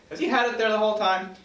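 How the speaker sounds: a wry narrator wondering aloud; incredulous aside. A narrator's reading. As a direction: ask it in disbelief.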